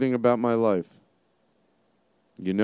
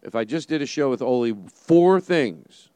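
talking with heavy reverb; big hall echo; 5 semitones higher, 4 dB louder than usual. Real, not acted. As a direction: voice echoing in a big room. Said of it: "Sorry for the reverb".

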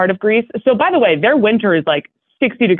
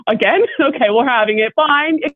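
forced cheer; 5 semitones higher than usual. Retold or imitated. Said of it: "And you're like".

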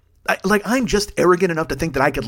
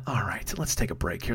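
calming down; 8 semitones lower, 11 dB quieter than usual. Real, not acted. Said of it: "Let's breathe".

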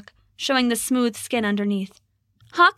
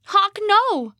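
anguished cry; 11 semitones higher than usual. Acted. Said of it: "began to cry".

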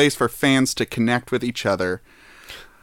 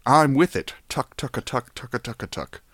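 rich person voice; 2 semitones lower than usual. Pretend. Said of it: "back to my poor person voice".

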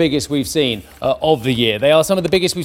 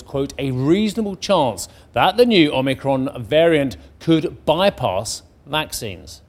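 measured newsreader delivery; crisp headline-story read; news read; 2 semitones lower than usual. Acted. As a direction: read it as a bulletin, landing key words. Reads the news bulletin.

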